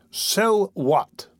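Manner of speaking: astonished question; amazed. A narrator's reading. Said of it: "inquired Mister Bumble in amazement".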